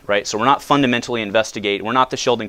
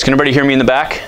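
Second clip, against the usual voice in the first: loud voice; 3 semitones higher, 6 dB louder, much faster than usual. Real, not acted. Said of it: "I've got a pretty loud voice".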